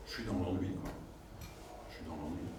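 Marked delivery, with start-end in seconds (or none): 1.9-2.5 mock bored. Trainer acting the bored-out employee, sagging and flat. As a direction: lower and softer, deflated "Je suis dans l'ennui.".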